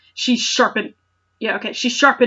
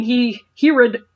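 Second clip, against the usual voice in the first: normal talking voice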